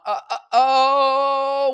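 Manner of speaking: high, loud, slow laughing cry; laughing yelp. Real, not acted. Host opens the live stream with a loud laughing cry. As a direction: whoop it out with a laugh.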